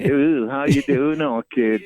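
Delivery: put-on light Birmingham accent, cheery greeting; Brum accent. Showing the host the Brum accent with a cheery Brummie greeting. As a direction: toss off a friendly Brummie hello. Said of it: "It's that Brum accent".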